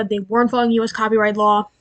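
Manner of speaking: breathless, rushing the words; out of breath. Real, not acted. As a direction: talk while short of breath. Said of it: "sorry, I'm out of breath".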